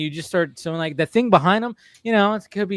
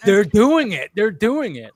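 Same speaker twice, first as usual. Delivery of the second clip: higher and louder, thrilled; excited; 7 semitones higher, 7 dB louder, slower than usual. Retold or imitated. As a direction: bounce on each word. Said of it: "I was so excited".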